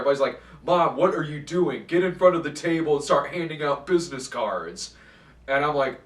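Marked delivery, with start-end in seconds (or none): 0.6-5.0 imitating a son berating his mom, louder and higher; mock yell, ordering mom around; raised-voice imitation of bossy nagging; retold yelling. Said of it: "he starts yelling at her again".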